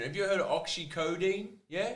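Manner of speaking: ordinary talk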